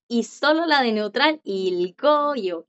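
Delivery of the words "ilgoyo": "ilgoyo" with the G heard before the vowel; drawn-out teacher's model of "ilgoyo"; G sounded. Shown as a demonstration. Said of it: "Ya ahí sí puede sonar".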